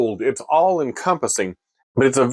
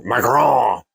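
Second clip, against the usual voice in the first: mock French; 3 semitones lower than usual. Shown as a demonstration. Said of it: "my French accent".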